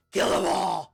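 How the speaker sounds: a bloodthirsty inner voice screaming at him; voice in head. Acted. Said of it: "you hear a voice say".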